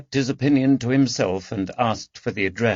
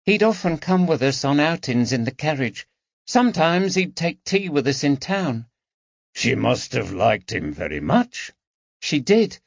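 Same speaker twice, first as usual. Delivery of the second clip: put-on a slightly higher servant girl; lightly voiced young maid; 6 semitones higher than usual. A narrator's reading. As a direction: tell it earnestly. Harriet speaking of McAdam.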